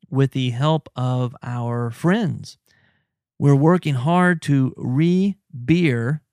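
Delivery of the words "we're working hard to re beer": slow dramatic label read. Shown as a demonstration. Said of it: "it says on the bottle".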